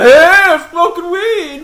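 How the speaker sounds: loud, high, slow mocking stoner shout. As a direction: yell it like a proud stoner. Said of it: "Yeah, like".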